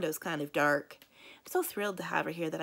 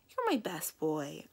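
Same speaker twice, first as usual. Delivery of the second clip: slow, lower, tender pet talk; cuddly praise; 3 semitones lower, slower than usual. Acted. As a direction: gently praise a beloved dog. Cuddling the dog after scolding it.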